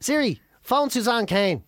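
slow, clear command to phone. Real, not acted. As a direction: dictate it slowly to Siri.

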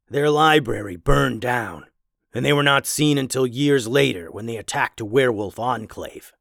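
a lightly voiced learned werewolf; scholarly werewolf. Werewolf tells old tale.

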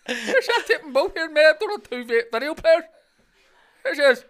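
high, loud, laughing impression of a Scottish man; mock dad voice. Imitating a man fussing over video players, high and laughing. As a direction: lark about as a bossy Scottish dad.

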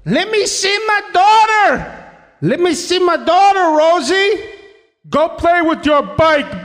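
high pleading Bob impression; Bob from La Bamba. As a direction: whine it out like a desperate father. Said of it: "one of my favorite impressions to do".

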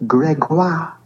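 high put-on French boy voice. Retelling the boy's answer, high French kid voice. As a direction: voice the kid saying his name. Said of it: "And he said".

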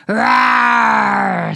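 loud, low, drawn-out creature roar; long growling baby T-Rex roar; dinosaur roar. Acted. The other dinosaur roars.

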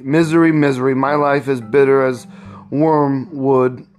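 lightly voiced bitter husband; despairing. George telling Eliza of his misery, mild despair.

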